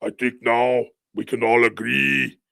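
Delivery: lightly imitated politician addressing a crowd; a hint of a sinister leader's speech; mock B B. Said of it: "He comes out there and says".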